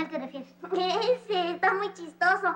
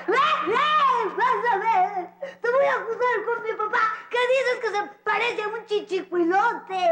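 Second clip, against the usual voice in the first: tearful threat; 4 semitones higher than usual. Acted. Offended girl threatens to tattle.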